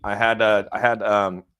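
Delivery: talking with a numb mouth after the dentist. Real, not acted. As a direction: numb mouth, words a bit slurred. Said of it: "If I sound funny".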